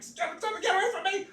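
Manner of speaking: high, panicked pleading; panicked plea. Retold or imitated. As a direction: shoo him away in a high-pitched panic. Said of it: "I'm like".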